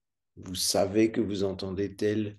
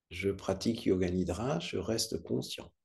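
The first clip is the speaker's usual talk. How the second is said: softer murmured repeat of "Je pratique Yoga Nidra, je reste conscient"; quiet repetition; 3 semitones lower, 6 dB quieter than usual. Shown as a demonstration. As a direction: repeat the mantra under your breath, softer. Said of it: "en répétant".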